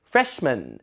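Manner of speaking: freshman as "FRESH-mun"; weakened second vowel. Shown as a demonstration. Teacher leading repetition, freshman with weak ending. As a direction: stress FRESH in freshman, reduce man. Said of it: "해보세요".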